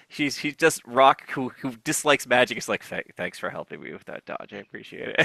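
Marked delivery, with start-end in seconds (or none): 3.2-5.3 very quiet, muted, begrudging tone. Player voicing a character who dislikes magic, thanking someone for help; very quiet, begrudging thanks. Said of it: "it's like very quiet".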